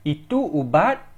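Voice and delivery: "Itu ubat?" with the voice rising at the end; rising question. Shown as a demonstration. Teacher demonstrating a question by a rising voice. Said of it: "by raising the voice".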